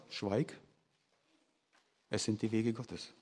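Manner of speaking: low, soft and firm, like silencing someone; quietly but firmly cut him off; hushed rebuke. A narrator's reading. Begleiter weist Einsiedler zurecht. (leise, tiefe Zurechtweisung)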